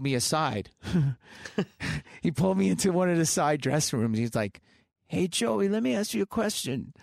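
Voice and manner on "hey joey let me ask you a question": put-on a light, half-hearted stab at a Birmingham accent, pitched higher; casually imitating a singer's Brummie accent, not nailing it; loosely mimicked Birmingham English accent, higher pitch; a singer's accent. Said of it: "I can't do his accent that great".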